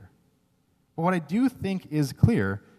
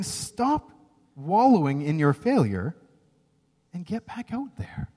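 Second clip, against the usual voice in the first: firm rebuke; 3 semitones higher, slower than usual. Acted. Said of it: "it's a very firm rebuke".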